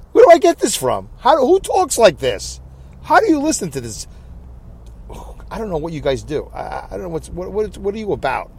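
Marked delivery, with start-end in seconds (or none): 0.1-4.1 high, incredulous self-mockery; mock disbelief. Real, not acted. Driver mocking his own phrase to listeners, high incredulous. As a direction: ask it like you can't believe yourself.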